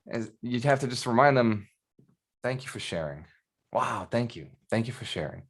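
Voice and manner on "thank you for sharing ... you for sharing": soft, understated thanks; polite brush-off. Shown as a demonstration. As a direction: demonstrate a quiet, unbothered reply. Models calm reply to critics.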